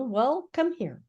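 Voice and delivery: slow, cautious call into the dark; slow storybook character voice. Acted. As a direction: draw it out slowly and carefully. Pooh calls into the dark.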